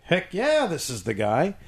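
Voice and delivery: a sudden high, eager "heck yeah"; mock-thrilled inner voice; excited agreement. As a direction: jump up in pitch with glee, then settle. Excited agreement in retold thought.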